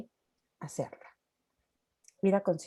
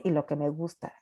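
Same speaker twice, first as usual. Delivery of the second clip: whisper; 3 semitones lower, 4 dB quieter than usual. Real, not acted. Confiding her reading pleasure.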